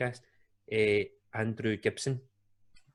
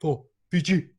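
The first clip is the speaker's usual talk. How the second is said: higher, louder mock scream of the team cry; 6 semitones higher, 6 dB louder than usual. Fiji players ending their prayer, mock screamed cry. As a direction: belt the Fiji team's call like a mock yell. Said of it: "they screamed".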